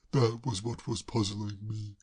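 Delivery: slow, relieved sigh of a line. Acted. Braddock finally understanding Claire, relieved. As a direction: let the relief out.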